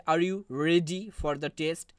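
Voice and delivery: slow question with "ready" stressed. Shown as a demonstration. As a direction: lean on "ready". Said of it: "রেডি এখানে stress word". ("ready" শব্দে জোর দিয়ে ধীরে প্রশ্ন)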